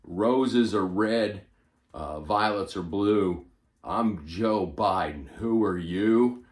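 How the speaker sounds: slow sing-song poem reading; poem recital. Shown as a demonstration. Reading his quarantine poem aloud, slow recital. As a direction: recite it slowly like a school poem. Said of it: "Here it is".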